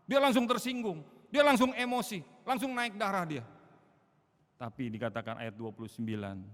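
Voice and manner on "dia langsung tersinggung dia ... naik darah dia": loud, high, heated burst; preacher mimicking a hot-tempered outburst; mock flare of temper. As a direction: act out someone flaring up. Describing hot-tempered man.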